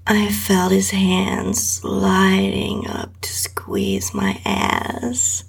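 intimate breathy whisper throughout; whispered erotic reading. A narrator's reading. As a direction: read it close to the mic, barely voiced. Erotic story read in whisper.

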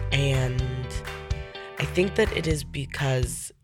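stuffy nose from a cold; nasal, congested voice. Real, not acted. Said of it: "which is why I sound a little bit nasally".

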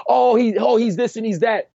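high-pitched imitation of complaining critics; put-on high critic voice; mock naysayers. Voicing critics' reaction back then.

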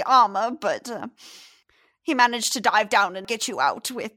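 lightly voiced chatty old lady; old woman. The fisherman's wife explains to the stranger where he is, chatty.

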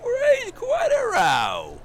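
high shouted threat. Acted. Threat climax.

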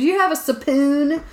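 put-on Japanese-accented English. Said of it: "'Cause I'm in the Mexican restaurant".

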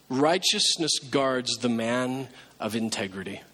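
slow, weighty scripture read, leaning on righteousness; slow and solemn for a sleepy congregation; slow emphatic reading. Shown as a demonstration. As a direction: read each word slowly so it sinks in. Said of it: "Just wake up for just a minute".

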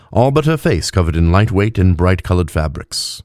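usual speaking voice

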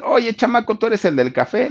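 high-pitched hail to a kid, acted in retelling; calling someone over. TV man hails the young coffee seller, calling out high.

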